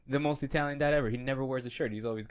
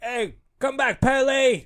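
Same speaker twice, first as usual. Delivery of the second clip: loud high slow call; shouting; 13 semitones higher, 9 dB louder, much slower than usual. Retold or imitated. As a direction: yell after the running kid. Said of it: "they're like".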